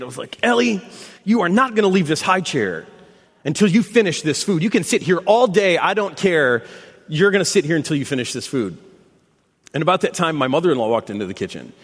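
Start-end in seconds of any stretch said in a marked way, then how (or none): 0.4-8.8 mildly stern retold ultimatum to a toddler; frustrated parent. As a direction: lay down the law like a fed-up dad, lightly acted. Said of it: "just so frustrated".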